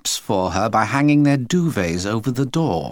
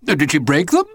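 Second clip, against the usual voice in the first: alarmed father; 6 semitones higher, 5 dB louder, faster than usual. A narrator's reading. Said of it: "out of his chair in a flash".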